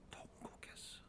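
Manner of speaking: a near-silent whisper. Acted. Preacher describing Hezekiah's bitter wailing, a whisper. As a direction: let the word fall to a whisper.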